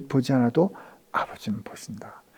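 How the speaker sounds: soft whispered promise. Retold or imitated. Jesus whispering comfort to a forgotten servant. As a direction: breathe it like a secret. Jesus voiced, tender secret.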